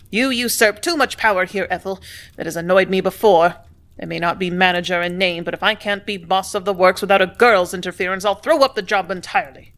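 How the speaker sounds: loud, blustering complaint. Acted. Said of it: "red-faced and blustering".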